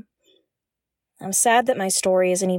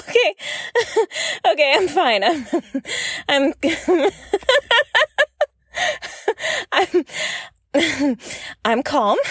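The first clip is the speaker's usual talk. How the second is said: high, breathless giggles she can't stop while insisting she's fine; trying to talk through helpless laughter; giggling fit; 8 semitones higher than usual. Acted. Nim failing to stop laughing in front of Al, helpless giggling. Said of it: "Why are you laughing?".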